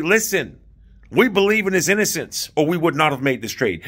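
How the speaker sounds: with conviction. Acted. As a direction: state it firmly, like an official standing by a decision. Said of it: "you need to have conviction".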